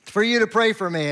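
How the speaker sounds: a grown son breaking, tears in his eyes; tearful outburst. Retold or imitated. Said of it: "tear in his eyes".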